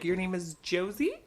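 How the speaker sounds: "Josie" said JOH-zee, with rising question; mispronounced Jose. Acted. Entitled woman misreading a man's name, mispronouncing Josie. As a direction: read Jose as "Josie", English J. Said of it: "can't be bothered to learn how to pronounce".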